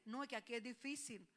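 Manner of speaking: quoting the complainers, soft and whiny; mock complaint. Pastor mimics church folk complaining it's hard here, softly whining. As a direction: imitate people grumbling it's hard here. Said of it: "sabe lo que la gente dice".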